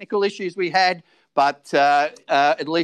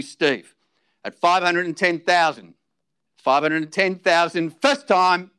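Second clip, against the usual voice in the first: auctioneer calling. Acted.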